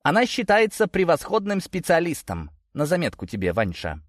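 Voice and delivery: high-pitched animated declaration; exclaiming. A narrator's reading. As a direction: pipe up eagerly, then drop on the name. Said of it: "воскликнула Мария".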